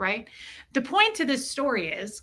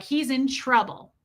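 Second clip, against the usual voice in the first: put-on slow, heavy country accent; imitated country accent; 3 semitones higher, slower than usual. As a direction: lay the principal's country accent on thick. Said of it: "laying it thick on me".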